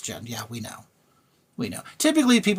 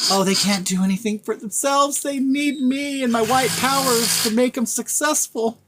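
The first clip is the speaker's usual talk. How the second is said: mock white savior; 7 semitones higher than usual. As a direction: sneer it out as a smug white savior, pitched up. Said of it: "that mind that believes".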